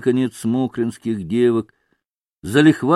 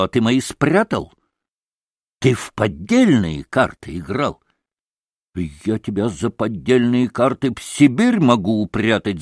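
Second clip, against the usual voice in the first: accusing innkeeper in a heated quarrel; lightly voiced rough accuser; rude innkeeper. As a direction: pelt him with indignant accusations.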